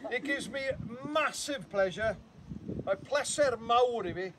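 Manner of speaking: pompous ceremonial ribbon-cutting, lightly hammed; mock-formal declaration. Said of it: "I've got to pretend".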